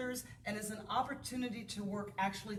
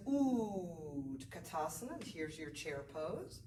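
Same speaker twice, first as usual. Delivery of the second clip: teacher cue; 4 semitones lower, 4 dB quieter, slower than usual. Retold or imitated. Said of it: "And the teacher says".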